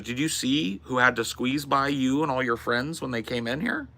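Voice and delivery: waitress voice. Retold or imitated. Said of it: "she goes".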